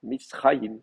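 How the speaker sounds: Mitzrayim as mits-RA-yim, weight on RA; accent on RA. Shown as a demonstration. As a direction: stress the ra of Mitzrayim, let yim fall. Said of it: "l'accent va rester là".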